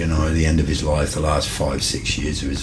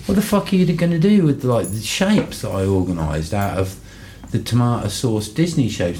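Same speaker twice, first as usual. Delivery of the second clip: retold outrage; 6 semitones higher than usual. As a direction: squeal the question in hammed-up disbelief. Retold outrage at ruined art.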